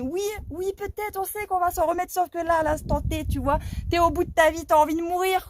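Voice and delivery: high, plaintive mock teen voice; acted adolescent despair, pitched high; despairing teenager. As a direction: wail it like a hammed-up heartbroken youngster. Acted despairing teen answering parents.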